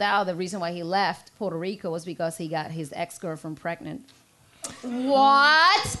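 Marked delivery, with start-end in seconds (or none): 4.8-6.0 shocked. Retold or imitated. Shocked at the news.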